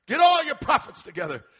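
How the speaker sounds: high, loud summons; commanding shout. Acted. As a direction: call out an order to a crowd. Acts Elijah summoning prophets.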